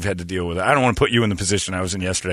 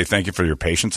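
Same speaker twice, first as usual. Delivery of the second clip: lower, softer mock customer-service calm; mock pleasant hotline voice; soothing phone rep; 5 semitones lower, 4 dB quieter than usual. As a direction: imitate a rep soothing an angry caller. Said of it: "They hire people to talk like that".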